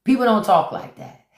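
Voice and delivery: emphatic repeat. Real, not acted. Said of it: "repeats louder".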